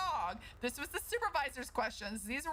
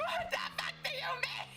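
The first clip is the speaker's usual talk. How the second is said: indignant disbelief; 11 semitones higher than usual. Retold or imitated. Retelling the trial, high indignant disbelief. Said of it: "I was like".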